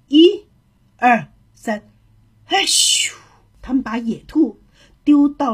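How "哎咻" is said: high, airy "ai-xiu" throwing noise; effortful heave ending in a hissed whoosh; voiced toss sound effect; heave-and-whoosh cry. Animals heave the hare away.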